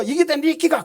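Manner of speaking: angry Gyeongsang retort. Retold or imitated. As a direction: fire it back in Gyeongsang dialect, half-acted. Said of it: "경상도 사람이 화가 나가지고".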